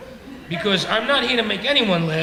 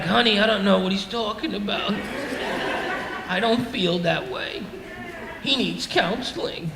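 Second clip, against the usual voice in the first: placating husband; 5 dB quieter than usual. Retold or imitated. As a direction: play the husband covering himself before his wife. Husband placating wife in retold scene.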